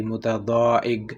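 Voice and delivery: متضاحک said slowly, its final qaf softened toward a g; qaf with a g touch. Shown as a demonstration. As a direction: end متضاحک with a light g sound. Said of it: "گاف کا تھوڑا سا touch". (متضاحک، آخر میں قاف کو گاف کا touch)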